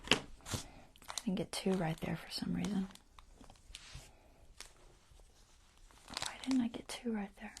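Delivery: puzzled whisper; hushed, confused murmur. Real, not acted. Puzzling over missing stitches.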